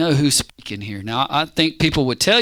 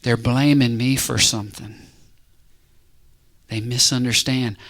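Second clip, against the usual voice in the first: calm, lowered voice of God; God standing there; 5 semitones lower, 3 dB quieter than usual. Acted. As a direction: answer low and quiet, with pauses. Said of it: "God stands there and says".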